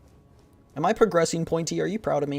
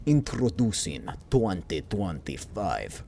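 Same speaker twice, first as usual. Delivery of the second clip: ad announcer; 5 semitones lower, 5 dB quieter, slower than usual. Pretend. Mock car ad.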